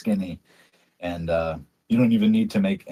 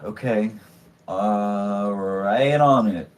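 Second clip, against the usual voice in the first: sarcastic sigh; much slower than usual. Acted. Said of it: "the barkeep sighs, like, very emphatically".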